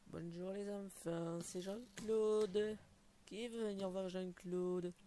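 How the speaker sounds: lightly voiced slow creepy clown; a hint of a creepy children's entertainer; silly clown Jean-Claude. Greets kids as Jean-Claude.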